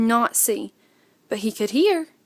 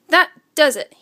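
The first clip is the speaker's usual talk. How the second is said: mild shout; 4 semitones higher, 5 dB louder than usual. Acted. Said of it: "he shouted".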